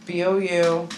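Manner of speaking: B O U C H A R D in separate, measured letters; slow spelling. Shown as a demonstration. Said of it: "Say it slow".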